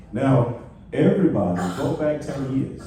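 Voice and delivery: rally everyone to pay attention; calling out to the room. Real, not acted. Speaker to seminar audience, loud call to attention.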